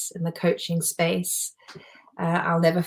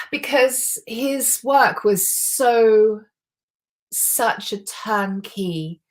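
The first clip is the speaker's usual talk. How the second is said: emotional; 5 semitones higher, 5 dB louder, much slower than usual. Real, not acted. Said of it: "oh, that makes me emotional".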